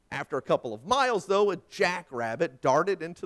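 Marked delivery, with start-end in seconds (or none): none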